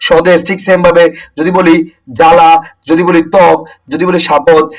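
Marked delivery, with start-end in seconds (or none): 2.2-2.5 জ্বালা said "jala", no w or b; silent ba-phala. Shown as a demonstration. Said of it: "বফলার কোনো উচ্চারণ হচ্ছে না". 3.3-3.6 ত্বক said "tok", no w or b; silent ba-phala. Shown as a demonstration. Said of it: "বফলার কোনো উচ্চারণ হচ্ছে না".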